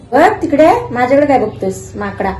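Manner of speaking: high playful teasing of the cat. Real, not acted. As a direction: coo at the cat.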